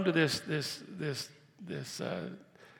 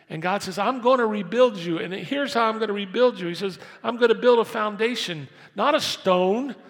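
loud, high, ringing preacher's voice; full-force preaching; 5 semitones higher, 7 dB louder than usual. Acted. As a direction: proclaim God's promise to the whole church. God's promise preached at full force.

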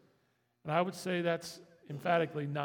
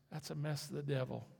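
usual speaking voice

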